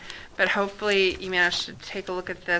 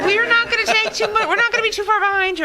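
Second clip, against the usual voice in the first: laughing; 13 semitones higher, 5 dB louder, faster than usual. Real, not acted. Laughing reply to leaving colleagues.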